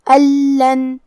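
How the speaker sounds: اللن recited with a firm doubled L, no hum; idgham without ghunnah. Shown as a demonstration. Teacher showing the merge rule, doubled non-nasal L in اللن. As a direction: merge the n into a held "al-lan" in اللن. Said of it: "لام میں ملا کے بغیر غنہ سے لیکن تشدید کے ساتھ".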